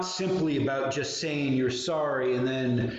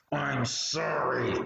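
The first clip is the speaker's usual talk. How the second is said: put-on delivery through gritted, clenched teeth. A speaker acts out kids apologizing to each other, imitating a sorry through gritted teeth. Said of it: "through gritted teeth".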